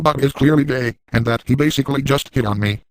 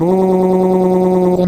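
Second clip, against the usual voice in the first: mock cheery answer; 6 semitones higher, 5 dB louder than usual. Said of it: "I will respond with".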